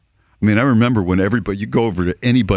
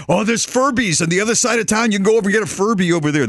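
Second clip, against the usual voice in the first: someone tipping off; 10 semitones higher, faster than usual. Retold or imitated. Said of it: "somebody would say".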